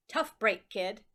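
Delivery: loud offhand brush-off; gruff judge. Acted. First judge dismissing Lucy, gruff brush-off. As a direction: toss it off carelessly.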